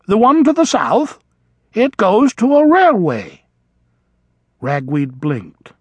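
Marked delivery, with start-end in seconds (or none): 0.1-3.4 put-on higher, louder elderly vole; matter-of-fact old traveller. A narrator's reading. Old vole answering the mouse, higher.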